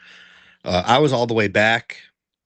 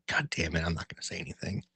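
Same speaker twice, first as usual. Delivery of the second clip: muttered to himself; 6 semitones lower, 13 dB quieter, faster than usual. Retold or imitated. Muttering to himself, holding back.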